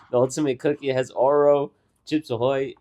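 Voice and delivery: mock slurred "Oro" inside the list; slurred imitation. Imitating friend's cookie description, "Oro" slurred to two syllables. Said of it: "sounded like you had an accent".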